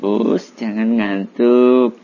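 slow, calm and kind; gentle reminder. Shown as a demonstration. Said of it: "Gitu kan lebih enak". (teguran lembut dan pelan)

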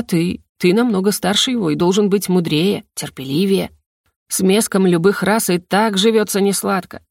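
ordinary delivery, nothing marked

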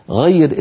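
غير said loud, the ض read as a thick l; heavy l sound. Retold or imitated. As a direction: imitate the Nigerian reciter's ض. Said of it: "قال كالتالي". (غير بضاد لامية مفخمة)

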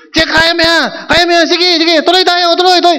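pushing a blindfolded player to keep crawling, shouted; coach shouting encouragement. Retold or imitated. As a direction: urge him on like a coach on the field. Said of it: "pero tatagalogin ko".

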